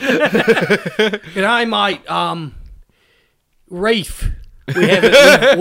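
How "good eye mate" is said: lightly hammed Australian greeting; badly faked Australian accent. Answering a fellow host, bad Australian accent. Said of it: "Australians 'cause I can't do a good accent".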